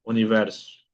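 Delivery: Universo opening on a Spanish U. Shown as a demonstration. Teacher repeating the example for students, Universo with Spanish-like U. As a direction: model Universo with its first vowel a pure U. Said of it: "Igual que en español".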